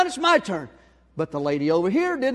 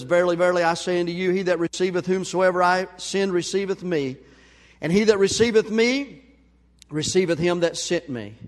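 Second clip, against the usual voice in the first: scripture reading. Acted. Reads scripture.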